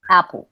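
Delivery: "Apple" with a very subtle A-E blend; disguised A-E vowel. Shown as a demonstration. Teacher asks students to watch closely, disguised A-E vowel. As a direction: say "Apple" with A and E merged, barely noticeable. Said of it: "Súper disimuladita, fíjense".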